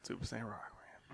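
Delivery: very soft, slow whispered echo; hushed echo. Real, not acted. Co-host echoing his partner's intro name, hushed whisper. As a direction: whisper it back.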